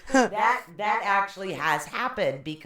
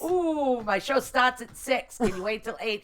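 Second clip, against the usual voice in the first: surprised; 7 semitones higher, 5 dB louder than usual. Retold or imitated. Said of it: "And I said".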